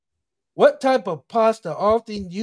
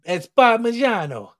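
a touch of Italian accent, slowed and savoured; 3 dB louder, slower than usual. Shown as a demonstration. Correcting a friend's pronunciation of the cheese, in an Italian accent. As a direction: roll Parmigiano out the Italian way, slowly. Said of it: "You gotta say it with an Italian accent".

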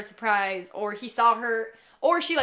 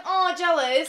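excited; 7 semitones higher, 5 dB louder, slower than usual. Retold or imitated. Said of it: "we were like".

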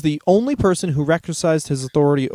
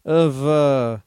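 mock announcer; 2 semitones higher, much slower than usual. Mock promoter announcing a champion.

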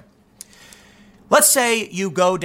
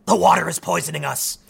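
screaming. Retold or imitated.

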